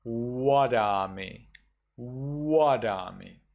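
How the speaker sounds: Wadami with rounded lips, a W not a V; slow Wadami starting on a round W; Burmese W. Shown as a demonstration. Teacher showing the Burmese reading with W. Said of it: "you will read it as".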